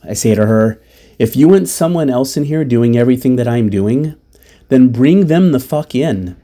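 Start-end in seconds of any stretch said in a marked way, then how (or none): 1.2-6.3 higher, mildly angry retort; retold yelling. Fed-up caregiver tells mother off, retold mild yell. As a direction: push it out as an understated yell. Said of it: "I definitely yell".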